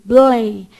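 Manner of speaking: Blém com o L na ponta da língua; demo syllable. Shown as a demonstration. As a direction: pronunciar Blém com a língua no céu da boca. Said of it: "Olha lá pra você ver". (Blém articulado para mostrar o L)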